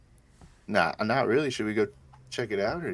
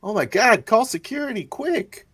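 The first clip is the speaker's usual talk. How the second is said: high, loud panic; panicked; 13 semitones higher, 5 dB louder than usual. Acted. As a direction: shriek for security. Player panics at news.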